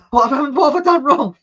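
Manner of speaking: high, loud mock-childish whine; imitated indignant youngster; protesting child. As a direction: plead like a kid wrongly scolded. Childhood self protesting to his mother.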